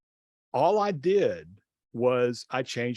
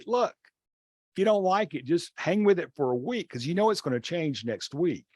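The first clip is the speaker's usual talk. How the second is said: exasperated teacher; 5 semitones higher than usual. Retold or imitated. Teacher answering kids' seating complaints.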